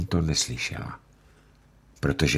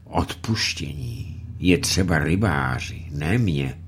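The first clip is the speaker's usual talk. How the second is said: strained. Acted. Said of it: "řekl s námahou".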